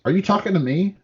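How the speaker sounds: lightly voiced movie gangster challenging a reporter; Goodfellas tough guy. Retelling Trump answering the press, mock Goodfellas tough guy. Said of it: "Like, perfect fucking, uh, uh, Goodfellas".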